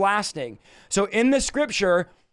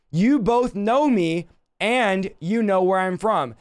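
slow, lightly raised preaching voice; mild crying out; slower than usual. Acted. Jesus teaching in the temple, crying out mildly. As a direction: proclaim it slowly, a restrained cry to a crowd. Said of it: "yells out in the temple".

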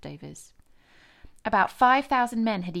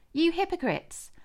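much higher, slow outcry; Jesus condemning the Pharisees, slow and raised; rebuke; 10 semitones higher, 3 dB louder than usual. A narrator's reading. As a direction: denounce them with force.

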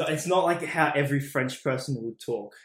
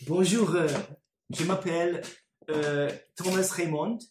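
French accent demo. Shown as a demonstration. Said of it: "So it's like".

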